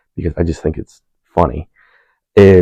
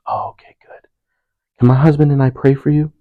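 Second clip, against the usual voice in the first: imitating the lady; 9 semitones higher than usual. Lady voiced in retold story.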